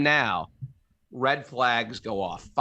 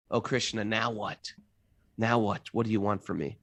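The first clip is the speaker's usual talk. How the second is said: a soft, pleading mock prayer at rock bottom; hushed desperate plea; 3 semitones lower, 6 dB quieter than usual. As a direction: murmur it up to Krishna, lost and begging.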